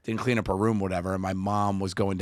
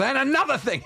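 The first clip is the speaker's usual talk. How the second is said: mom's raised scolding; 3 dB louder than usual. Retold or imitated. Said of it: "my mother turns around and goes".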